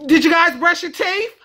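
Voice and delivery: "teeth" ending in an F sound. Shown as a demonstration. Vlogger demonstrating everyday speech, "teeth" ending in F. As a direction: say "teeth" as "teef". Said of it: "we would say something like this".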